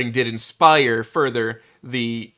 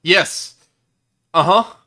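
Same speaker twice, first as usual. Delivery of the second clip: eager player voice; 6 semitones higher, 10 dB louder, slower than usual. Retold or imitated. Mocking the too-eager player's answer.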